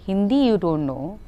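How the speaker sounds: lightly mimicking an incredulous director; ticking off her failings, rising at the end; imitated director in disbelief; director's exasperated scolding. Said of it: "he looked at me, he's like".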